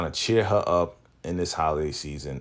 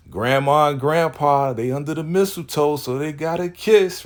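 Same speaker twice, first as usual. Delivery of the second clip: put-on much higher, excited little-kid teasing; 9 semitones higher, 5 dB louder than usual. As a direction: squeal it like a giddy grandson. Little grandson teasing grandparents.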